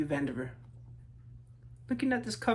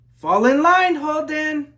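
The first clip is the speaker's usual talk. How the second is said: higher, louder sharp order; stern teacher call; 9 semitones higher, 14 dB louder, slower than usual. Acted. Teacher scolding the daydreaming Holden, loud stern call. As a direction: snap the boy back into line.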